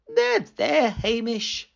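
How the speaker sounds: consoling. A narrator's reading. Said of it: "said Missus Grinling consolingly".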